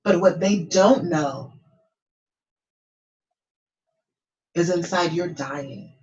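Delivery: slow, weighted words with long pauses; slow right down and let a long silence hang; changed tone for emotional emphasis. Shown as a demonstration. Coach showing how tone makes listeners feel, slow and emphatic. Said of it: "I change my voice and my tone".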